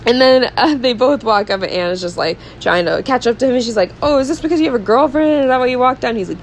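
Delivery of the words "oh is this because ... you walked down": high, hurried questions; mock anxious questioning. Anna chasing Christian after the date, high anxious questioning. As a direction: rush it out in a higher voice.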